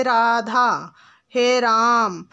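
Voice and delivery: "राधा" stretched very slowly, as if calling. Shown as a demonstration. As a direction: call out "हे राम", holding the last vowel three beats. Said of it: "जैसे किसी को पुकारते हैं". (पुकारते हुए, स्वर तिगुना खींचकर)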